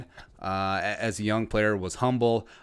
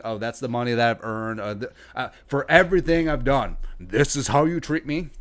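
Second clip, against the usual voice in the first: mock defensive; 2 semitones higher, 4 dB louder than usual. Imitating players asked about their contract, mock defensive. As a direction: act out a wounded, defensive protest. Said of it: "they get all defensive".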